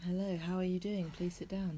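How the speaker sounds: oily, ingratiating host welcome; smarmy voice. Pretend. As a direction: lay the smarm on thick. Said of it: "that's my smarmy voice".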